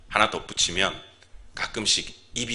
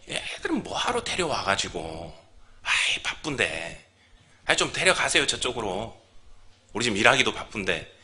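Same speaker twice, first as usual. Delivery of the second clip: grumbling disciples; 4 dB quieter than usual. Retold or imitated. Disciples telling parents to take the children away, mildly grumbling. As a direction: play a busy helper put out by visitors. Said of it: "제자들이 아마 그랬는지 모르겠어요".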